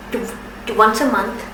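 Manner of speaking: repeating the first sound; real stutter on the t. Real, not acted. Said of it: "I am a person who stutters".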